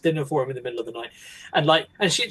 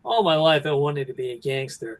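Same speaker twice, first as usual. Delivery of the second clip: bored, laid-back narrator; Ray Liotta. Acted. Podcaster quoting the gangster film's opening narration, lightly bored. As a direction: lightly imitate an indifferent voiceover. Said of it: "he almost sounds kind of bored".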